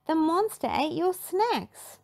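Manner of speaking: put-on high prim old lady; Miss Pinchface voice. A narrator's reading. Miss Pinchface informing the boys, high and prim. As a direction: tell them flatly. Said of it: "Miss Pinchface said".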